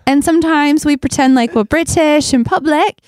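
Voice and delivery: light put-on British accent; chatting as a mock Brit; a hint of a British accent. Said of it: "I can do British".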